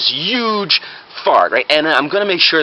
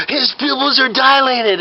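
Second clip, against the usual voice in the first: high, slow, dramatic announcement; alarmed fake doctor; 11 semitones higher, slower than usual. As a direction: announce it with mock medical gravity.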